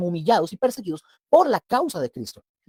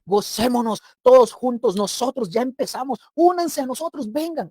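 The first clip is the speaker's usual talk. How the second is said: inviting call; 4 semitones higher than usual. Retold or imitated. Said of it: "nos invitan a su mesa celestial".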